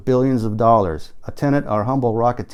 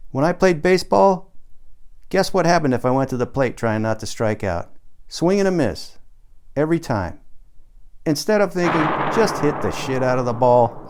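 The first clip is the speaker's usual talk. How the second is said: Tom's pep talk. Acted. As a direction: pitch it like a gung-ho coach. Tom's baseball and privatization pep talk.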